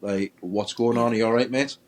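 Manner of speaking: half-shouted imitation of calling out; retold shout. Retelling his challenge to the figure, mild shouted call. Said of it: "I shouted out".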